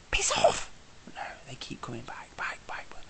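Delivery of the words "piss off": breathy whispered grumble; fed-up tourist cursing hawkers in a whisper; whispered curse. Real, not acted. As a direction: hiss it under your breath.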